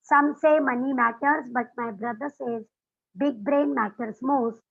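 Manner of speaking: each word drawn out slowly, chant-like; slow mnemonic. Shown as a demonstration. Teacher reciting the mnemonic to her class, slowly. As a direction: spell it out slowly for memory. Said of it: "ये sentence भी याद रख सकते हैं".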